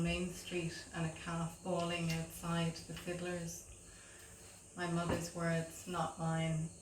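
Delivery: measured poem reading with pauses between lines; poetry reading. Acted. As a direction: read your poem to an audience, line by line. Reads own poem aloud.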